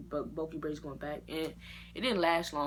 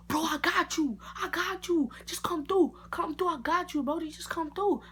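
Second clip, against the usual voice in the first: high, louder casual barber voice; barber reassuring; 11 semitones higher, 4 dB louder than usual. Retold or imitated. Barber to customer, high casual reassurance. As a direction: play the laid-back barber. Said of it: "And he's like".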